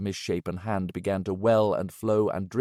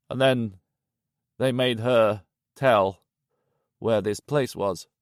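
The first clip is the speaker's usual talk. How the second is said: put-on grim old Yanchi. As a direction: lay out the horror wearily.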